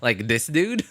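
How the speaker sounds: laughing disbelief. Real, not acted. Amused by the matching voice.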